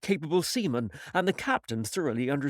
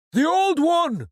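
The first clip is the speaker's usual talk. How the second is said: far higher, louder shout; a second sailor bellowing eagerly; another sailor crying; 13 semitones higher, 8 dB louder, slower than usual. Acted. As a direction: yell out the request. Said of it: "cried another".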